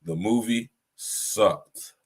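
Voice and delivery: slow, weighted verdict on movie; a flat-out honest put-down, slowed; blunt, drawn out. Real, not acted. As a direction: lean on each word slowly. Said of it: "if I'm gonna be honest".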